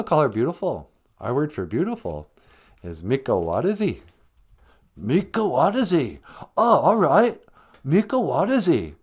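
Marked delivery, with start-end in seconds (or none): 5.0-8.9 put-on higher, lilting Rez accent; singsong Rez-accented dude. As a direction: echo the word eagerly in a put-on Rez accent. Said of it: "you're saying it with a Rez accent".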